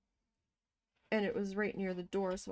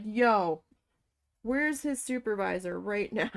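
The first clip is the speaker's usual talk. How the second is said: loud opening demand, retold; acted-out upset complaint; 5 dB louder than usual. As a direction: call out the "Yo", then demand answers. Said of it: "I was so upset".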